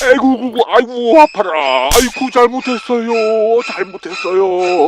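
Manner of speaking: wailing, near sobbing; wailing apology. Acted. Father under blows, wailing apologies to daughter-in-law. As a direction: cry out your apology.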